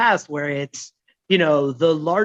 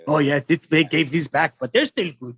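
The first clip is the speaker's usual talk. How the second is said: light imitated Middle Eastern accent, shopkeeper; lightly voiced Middle Eastern shopkeeper accent. Bodega clerk offering returned goods, lightly voiced Middle Eastern accent. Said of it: "I don't know what accent that was".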